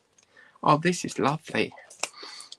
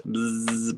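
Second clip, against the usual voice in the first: buzzing bee noise; 2 semitones lower than usual. Retold or imitated. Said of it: "buzzy bee".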